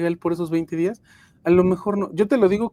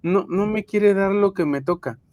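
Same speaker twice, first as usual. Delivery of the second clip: imitating a mildly indignant employee, pitched a little higher; annoyed complaint; 4 semitones higher than usual. Upset employee griping about the HR woman, mildly annoyed complaint. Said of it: "la gente se enoja y dice".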